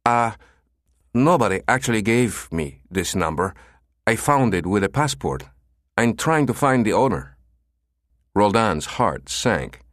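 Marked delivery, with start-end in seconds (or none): 0.0-7.4 higher, hesitant nasal caller; flustered. Acted. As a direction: stumble and hurry, caught off guard. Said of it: "The voice became flustered".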